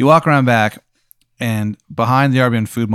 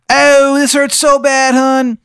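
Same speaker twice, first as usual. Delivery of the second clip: high, slow, moaning falsetto; dying Steve; 7 dB louder, much slower than usual. Acted. GM voicing the murdered Steve's dying recording, high pained moan. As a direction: whimper it out in a pained squeaky voice.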